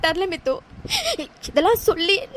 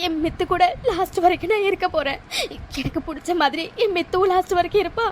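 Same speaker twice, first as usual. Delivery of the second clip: tearful lament. Acted. Lost dreams lament to friend.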